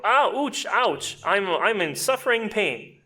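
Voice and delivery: high, loud hammed-up cries of pain; mock pain. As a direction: overact being hurt, going high. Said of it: "Quite terrible".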